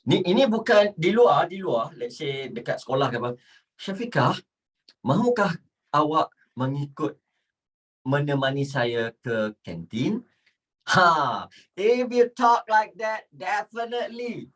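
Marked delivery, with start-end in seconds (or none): 3.7-10.2 formal textbook Malay. Shown as a demonstration. Teacher models inviting friend Syafiqah to canteen, formal Malay. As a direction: recite it word by word, politely formal. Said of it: "Contoh dia macam ni".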